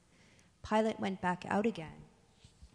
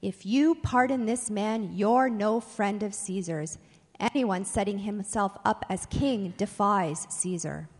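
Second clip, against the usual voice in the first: raised, forceful voice, short of a shout; shouting him down; 5 dB louder than usual. Acted. Crowd shouting Pilate down over a pardon, moderately loud. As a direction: loudly overrule him, pressing each clause. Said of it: "shouted him down".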